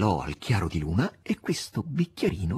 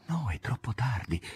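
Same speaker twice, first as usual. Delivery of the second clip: soft, unvoiced reply; whisper; 7 dB quieter than usual. A narrator's reading. Master whispering back to Margherita. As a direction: answer in a breath.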